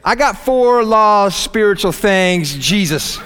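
mock awkward evangelist losing his words; fumbling nervous pitch. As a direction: botch the speech like a tongue-tied witness. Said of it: "it kinda comes out like this".

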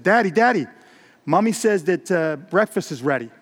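lightly voiced eager child; little daughter. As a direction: call out brightly as a small girl. Little daughter calling her father.

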